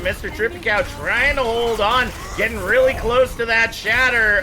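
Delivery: rising excited esports call; play-by-play commentary. Acted. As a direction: build hype over the fight. Live play-by-play.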